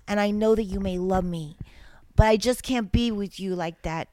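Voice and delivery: dramatic whisper. Pretend. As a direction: breathe the lines as a whisper. Dramatic lyric read, whispered.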